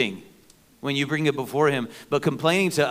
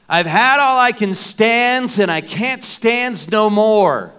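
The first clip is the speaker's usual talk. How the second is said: higher, louder, slow cartoon sailor growl; Popeye; 7 semitones higher, 9 dB louder, slower than usual. Pastor imitating Popeye's catchphrase for the congregation, hammed-up cartoon voice. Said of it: "Popeye had this saying".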